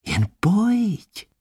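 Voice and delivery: high, light coaxing; a hint of a laugh as she beckons; mild laughing invite. Lesana laughingly inviting Adam to come. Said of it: "smála se na něj".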